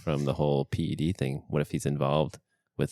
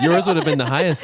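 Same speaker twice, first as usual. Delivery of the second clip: laughing; 11 semitones higher, 10 dB louder than usual. Real, not acted. Laughing through effect.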